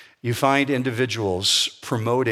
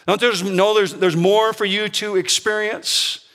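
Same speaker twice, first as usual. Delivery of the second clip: raised, coaxing serpent voice; Satan tempting Eve; 8 semitones higher, 4 dB louder than usual. Retold or imitated. Satan tempting Eve, coaxing and raised. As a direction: hook her with a sly higher whisper-free tease. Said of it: "when he said to her".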